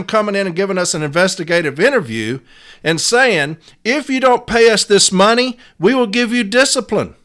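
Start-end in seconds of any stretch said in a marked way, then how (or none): 3.8-7.1 mock demand. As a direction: sneer it back like a smug boss. Mocking management's demand.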